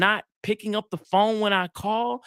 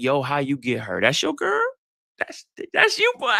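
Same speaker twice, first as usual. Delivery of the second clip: hyped friend; 3 semitones lower than usual. Retold or imitated. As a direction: hype your boy's girl up. Other men admiring a girlfriend.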